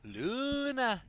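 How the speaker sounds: high, loud cry of Luna; hero voice line. Retold or imitated. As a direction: belt out the hero's name. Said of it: "That's not what she says".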